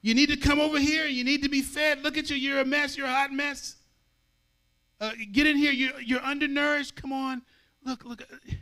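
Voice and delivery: high, loud, urgent calling out to passersby; Lady Wisdom yelling. Acted. Lady Wisdom calling the simple in, loud and high. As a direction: beckon the simple ones in, loudly and high. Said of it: "one woman yelling".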